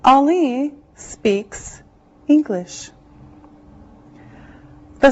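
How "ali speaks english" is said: slow model sentence. Shown as a demonstration. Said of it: "teacher models example sentence slowly".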